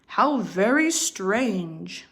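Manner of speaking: slow, wondering papa bear; a puzzled big bear taking it slowly. Acted. Papa Bear speaking in the story.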